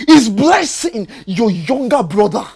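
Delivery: firmer, insistent repeat of the question; pressing demand. Acted. Husband repeating his question to wife, now insistent. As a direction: push harder, demand the truth.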